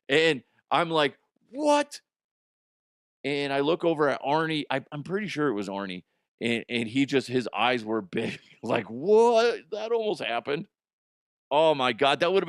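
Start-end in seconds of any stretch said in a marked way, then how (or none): 1.5-2.0 shocked what. Retold or imitated. Shocked reaction at near miss. 8.9-10.7 stunned what. Retold or imitated. Arnie's wide-eyed reaction retold.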